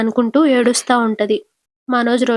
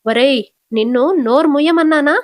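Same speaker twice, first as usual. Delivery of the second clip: firm, slightly raised scolding; mild mock threat to her son; a touch of a stern mother-in-law; stern warning; 3 semitones higher than usual.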